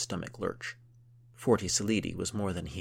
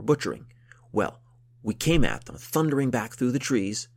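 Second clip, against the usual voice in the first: excited war story; 5 dB louder than usual. Acted. Count recounts charging into battle.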